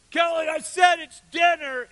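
insistent, high, slow shout; mom yelling. Retold or imitated. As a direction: shout it like a mom calling a second time. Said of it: "you hear your mom yell".

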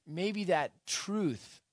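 "that" stretched high and slow before "truth"; slow down and lift "that"; stress on THAT. Shown as a demonstration. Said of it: "slow emphatic build on truth".

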